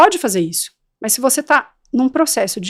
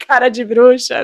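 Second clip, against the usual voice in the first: witch face; 4 dB louder than usual. Shown as a demonstration. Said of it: "você muda".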